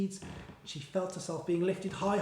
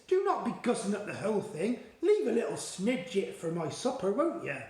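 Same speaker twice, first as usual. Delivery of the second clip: coaxing, a little higher friendly giant; BFG voice; 3 semitones higher than usual. Acted. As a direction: sweet-talk him into a bite.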